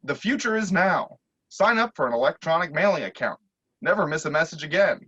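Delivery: recorded phone ad voice; lightly voiced robocall pitch; automated message. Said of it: "an automated message start".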